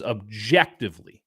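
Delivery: "objectively" punched on its middle syllable; really emphasize "objectively"; stress on objectively. Real, not acted. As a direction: lean hard on the word "objectively". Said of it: "I'm really emphasizing that word".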